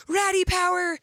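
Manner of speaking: high, loud sing-song call for hugs; mock-urgent plea, voice jumping up high; playful loud call. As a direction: call out to your son for a hug, hammed up. Mom calling son for hugs.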